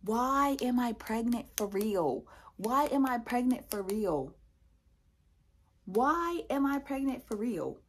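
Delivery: slow, drawn-out wail, slightly acted; mock boohoo crying. Lamenting that the scam is real, mock boohoo crying. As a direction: wail each word out, imitating sobs. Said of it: "I start boohoo crying".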